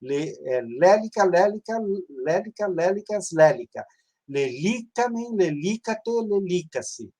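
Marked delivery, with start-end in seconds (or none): 0.6-3.9 lélica stressed on first syllable: LÉ-li-ca; stress on third-last syllable. Shown as a demonstration. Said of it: "ele fica na terceira sílaba". 4.3-7.1 lelicamen, lelicate, lelicace, each stressed on LI; drawn-out LI in "lelicamen, lelicate, lelicace"; stress on third-last syllable. Shown as a demonstration. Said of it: "ele fica na terceira sílaba".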